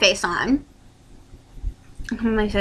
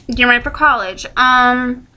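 chewing while talking. Real, not acted. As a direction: mouth full of food. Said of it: "sorry, I'm chewing".

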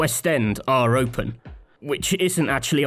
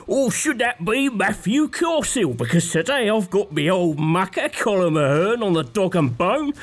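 mock London accent; 3 semitones higher than usual. Podcast host jokingly opens the show in a hammed-up Cockney accent. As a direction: lay on a put-on London geezer accent. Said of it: "I said I can't do a London accent".

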